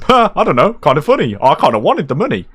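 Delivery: high, swooping mock girl's voice; mock airy girl. Girl shrugging off robbing him, high mocking imitation. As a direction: imitate her with a high, careless lilt. Voicing the laughing girl robber.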